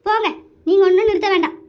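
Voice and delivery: exasperated wife's rant; worked-up, irritated complaining; angry. Acted. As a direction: snap at husband, fed up. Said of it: "ஏண்டி கோவப்பட்டுட்டு இருக்கிற?".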